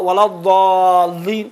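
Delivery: الضالین with a drawn-out, distinct zaad; acceptable zaad. Shown as a demonstration. Teacher showing clerics an acceptable recitation, الضالین with drawn-out zaad. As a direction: say الضالین slowly, long aa after the zaad. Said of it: "کافی ہے".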